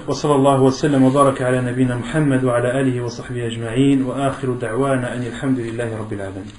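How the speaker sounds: fast formulaic recitation in Arabic; closing religious formula. Real, not acted. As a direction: run through the closing praise quickly, settling down at the end.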